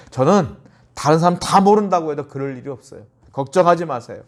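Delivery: lightly acted self-assured promise; retold overconfident assurance; confident boasting. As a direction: brush off the warning with mild bravado. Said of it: "호언장담했어요".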